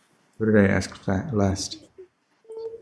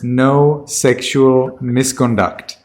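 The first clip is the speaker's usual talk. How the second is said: slow, word by word; teacher's slow, separated correction; slow dictation; much slower than usual. Shown as a demonstration. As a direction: state it slowly for a learner to catch. Teacher corrects student's answer.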